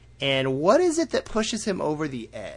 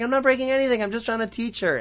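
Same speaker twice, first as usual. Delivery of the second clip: high-pitched defensive pleading; squeaky-high self-defence; mock protest; 10 semitones higher, 3 dB louder, much faster than usual. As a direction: imitate a pupil protesting innocence. Aang protests to his master.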